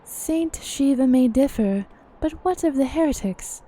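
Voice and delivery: lightly voiced game character, formal delivery; Minfilia. Character questioning talk of heretics, lightly put-on formal voice. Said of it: "I'm still in Minfilia's voice".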